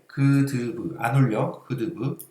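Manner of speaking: holding the nose closed; said with a pinched nose; pinching nose. Shown as a demonstration. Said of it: "코 막아봐".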